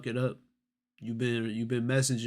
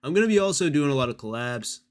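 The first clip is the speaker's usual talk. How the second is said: a light, slightly raised hint of Mizkit; 5 dB louder, faster than usual. Streamer reads the message aloud, lightly playing Mizkit. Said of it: "in the Mizkit voice".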